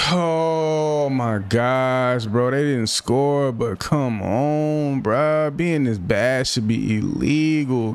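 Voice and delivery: high, slow, dragged-out exasperation; exasperated groan. Real, not acted. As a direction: stretch every word in disgust. Groaning over his own mistakes.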